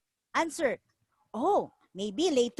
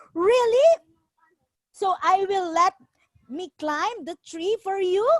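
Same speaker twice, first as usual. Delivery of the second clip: eager monkey; 5 semitones higher, 4 dB louder than usual. Acted.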